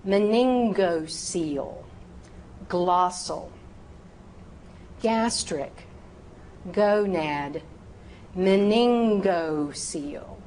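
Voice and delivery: each word alone, syllables fully sounded; very precise enunciation. Shown as a demonstration. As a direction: model each term carefully for students. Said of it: "I am being very precise".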